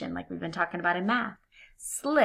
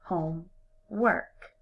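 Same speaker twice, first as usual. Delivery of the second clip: slow, "homework" as two words; split slowly; much slower than usual. Shown as a demonstration. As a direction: stretch "homework" into home and work. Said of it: "break it apart into two separate words".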